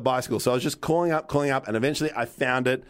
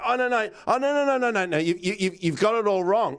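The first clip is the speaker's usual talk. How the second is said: higher-pitched, stammering mock denial; retold panicky retreat, piling up the denials; backpedaling hard; 4 semitones higher than usual. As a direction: imitate a defensive salesman tripping over his protests. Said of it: "backpedaling hard".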